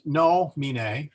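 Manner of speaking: NOMINE with a long stressed NO, NOH-mi-nay; third-from-last stress. Shown as a demonstration. Teacher explaining the stress rule, NOH-mi-nay stressed first. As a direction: lean slowly on the first syllable of "nomine". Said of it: "that is where the stress goes".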